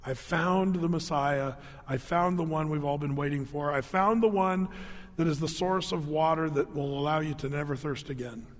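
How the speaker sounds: a hint of a woman overwhelmed; quiet awe; awed testimony. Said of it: "goes and says".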